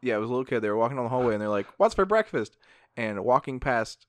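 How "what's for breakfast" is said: loud call. Retold or imitated. Kid calling out in hallway.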